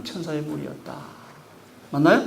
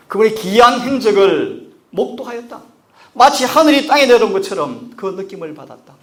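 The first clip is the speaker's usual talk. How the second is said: louder, higher impassioned sermon; full-force preaching; 7 semitones higher, 12 dB louder than usual. Real, not acted. Preacher to congregation, loud impassioned preaching. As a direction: drive the question home.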